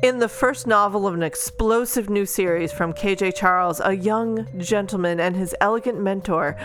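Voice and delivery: steady back-cover blurb read. Acted. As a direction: read it like a book jacket. Reads the book blurb.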